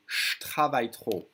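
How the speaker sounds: «je travaille trop» with je fused into a sh: shtravaille; dropped E. Shown as a demonstration. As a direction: run J and T together in «je travaille trop», sh-travaille. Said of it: "I'm gonna drop the E".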